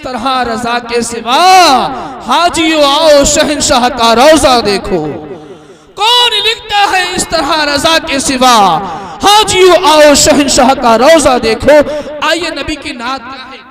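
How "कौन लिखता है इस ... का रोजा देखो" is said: louder repeat. Shown as a demonstration.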